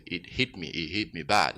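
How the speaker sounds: ordinary delivery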